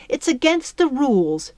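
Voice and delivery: high, slightly flustered insistence. A narrator's reading. Fairy smoothing her dress, flustered. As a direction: insist on the rule, a touch ruffled. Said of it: "She seemed flustered".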